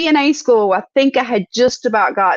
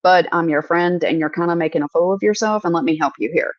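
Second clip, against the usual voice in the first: kind, not attacking; 4 semitones lower than usual. Pretend. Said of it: "it's not done in an attacking way".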